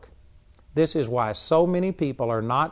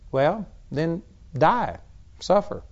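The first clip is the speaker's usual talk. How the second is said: blunt; 2 semitones higher, slower than usual. Real, not acted. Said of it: "I'm just trying to be blunt with you".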